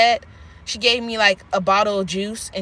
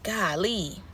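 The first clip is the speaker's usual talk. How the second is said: mock dismissive; 4 semitones lower, 9 dB quieter than usual. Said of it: "I be like".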